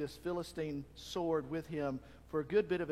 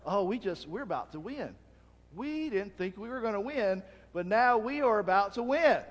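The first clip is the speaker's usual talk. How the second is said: louder, higher joy at winning; thrilled shout; 5 semitones higher, 7 dB louder than usual. Retold or imitated. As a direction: realize victory is coming. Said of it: "They're shouting".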